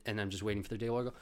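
ordinary delivery

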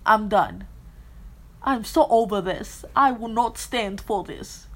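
mock posh British huff; British accent. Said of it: "Is my British accent perfect?".

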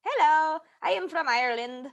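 halting, mock Irish accent; fake Irish accent. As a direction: announce yourself in a half-hearted Irish accent. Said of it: "we're gonna start with Irish".

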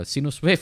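sinus as "see-noos" before English wave; mistaken Indonesian reading. Shown as a demonstration. Lecturer retelling the term he was laughed at for, "see-noos wave". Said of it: "Pas saya ngomong gitu diketawain".

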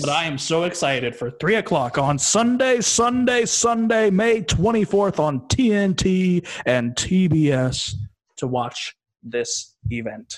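a hint of monster truck hype.

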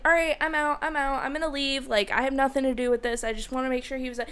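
mock nervous bid to get away; retold babble of wanting out of it; backing out. Retelling trying to leave the scene.

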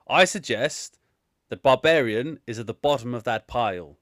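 mock-posh English, deliberate pauses between choices; lightly hammed-up posh English. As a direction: deliver solemn advice in a put-on posh accent. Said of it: "let me put my best posh voice on here".

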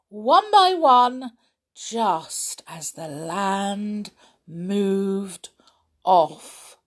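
expressive narration with dramatic pauses; children's story reading. A narrator's reading. Reader tells children of escape down the ladder, animated storytelling. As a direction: tell the narrow escape to children, stretching the ending.

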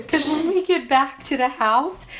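high, loud panic through laughter; retold panic. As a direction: act out panicking, drawing the words out.

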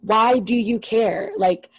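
slow, drawn-out retold snap; snapping in exasperation. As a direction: stretch each word out in mock exasperation. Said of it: "Garcelle finally fucking snaps".

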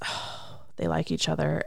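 soft, breath-led "Oh" then the realization; jealous thought. Retold or imitated. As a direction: imitate a jealous woman's inner aside. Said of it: "she thinks".

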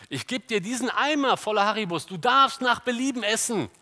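put-on high, loud, generous offer to a child; talking to a child. Preacher plays adult offering a child sweets, high emphatic voice. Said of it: "Wenn man einem Kind sagen würde".

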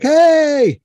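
a big, high shout across the woods; high, loud hail to distant hikers; yell. Retold or imitated. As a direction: call out loud to find the group. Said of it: "I start yelling".

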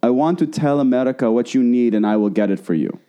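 lightly put-on Russian-like accent; imitated foreign accent. Host imitating the star promising America's help, put-on Russian-like accent. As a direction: imitate her vague Russian-tinged English. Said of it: "I'm doing her accent".

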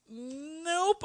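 firm refusal. Retold or imitated. Retelling own refusal to approach anyone.

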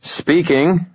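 annoyed. A narrator's reading. Wizard confirming his name to a caller, annoyed. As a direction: answer with open irritation. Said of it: "Annoyed as hell".

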